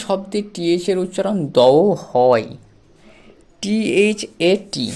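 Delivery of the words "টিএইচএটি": letters spelled out very slowly; slow spelling. Shown as a demonstration. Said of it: "এটা থ্যাট নয়, এটা দ্যাট।". (ধীরে ধীরে বানান করে)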